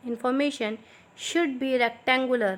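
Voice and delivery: slow, clear dictation pace for students to write. Shown as a demonstration. Teacher dictating slowly to her students. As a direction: spell it out slowly so they can copy. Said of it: "थोड़ा मैं slow slow बोलूँगी".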